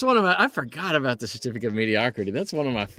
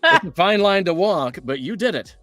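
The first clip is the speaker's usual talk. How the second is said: lightly raised mock-formal announcer read; game certificate reading; 4 semitones higher than usual. Host reads the game's mocking certificate in a mock-formal voice. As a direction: read it like a smug corporate award. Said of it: "the Pizzeria Simulator".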